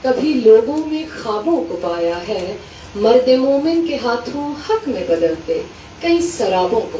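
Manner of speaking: measured Urdu verse recital, falling away at line ends; mushaira-style reading, each half-line set apart; poetry recitation. Acted. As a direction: recite the couplets with pauses between phrases. Recites a couplet to the audience.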